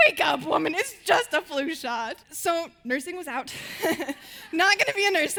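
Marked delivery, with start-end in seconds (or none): 0.1-2.2 lightly voiced dad, laughing through the words. Imitating dad teasing his fainted daughter, laughing. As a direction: tease her while chuckling. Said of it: "my dad was laughing at me".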